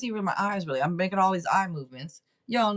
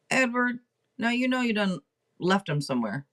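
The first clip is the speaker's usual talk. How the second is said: playful scolding. Real, not acted. Psychic to viewer who lost his keys, playful scolding. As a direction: scold him lightly, pausing after the name. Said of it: "Why I say it like that?".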